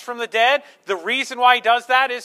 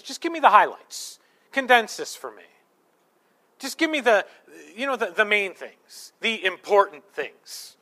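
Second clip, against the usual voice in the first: mock impatient demand. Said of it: "do you feel how blasphemous that is?".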